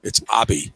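Abi said ah-beh; Abi, Japanese way; Japanese pronunciation. Shown as a demonstration. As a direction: Abi with two syllables, ah-beh. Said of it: "not pronounced Abe".

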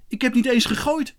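put-on high-pitched boyish protest; defending himself. A narrator's reading. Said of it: "verdedigde Kees zich".

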